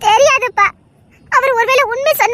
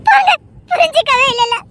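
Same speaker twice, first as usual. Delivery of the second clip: crying; 3 semitones higher than usual. Acted. Crying complaint.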